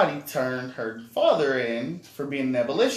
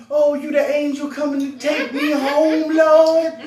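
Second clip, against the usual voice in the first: imitating mom; 11 dB louder than usual. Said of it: "She's like".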